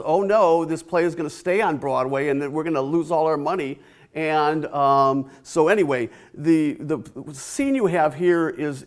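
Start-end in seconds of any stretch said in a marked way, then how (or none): 0.0-3.8 half-playful alarm at losing money; mock panic. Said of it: "And they freak out because".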